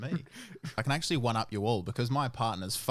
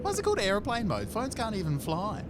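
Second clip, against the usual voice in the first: goofy captain; 9 semitones higher than usual. Pretend. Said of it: "getting you to say the".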